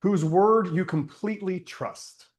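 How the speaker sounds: unhurried meditation voice with long pauses; guided meditation. Acted. Teacher leads listeners to think of someone trusted, guided meditation. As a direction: guide them inward, leaving space after each phrase. Leads a closed-eye reflection.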